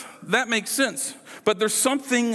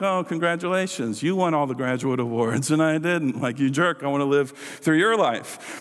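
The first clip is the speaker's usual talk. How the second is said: lower-pitched, grudging mock praise; sarcastic congratulations; 3 semitones lower than usual. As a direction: congratulate them with envious sarcasm. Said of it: "used really sarcastically".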